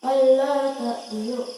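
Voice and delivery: ta'dilu intoned slowly, Allah rising; recited slowly. Shown as a demonstration. Teacher demonstrates the verse for students, slow chant. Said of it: "Jika wasal".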